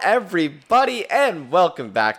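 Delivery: loud, high announcer-style projection; forced projection. Acted. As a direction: push the voice out like a radio host. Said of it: "it sounds like you're forcing it".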